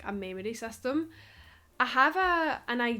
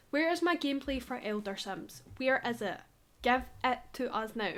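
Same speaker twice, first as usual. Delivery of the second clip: mildly exasperated rant with laughs; lively mock-outraged complaint; playful rant. Real, not acted. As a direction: plead your case, half-joking and indignant. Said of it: "Ranting on YouTube videos, screaming at The Sims team".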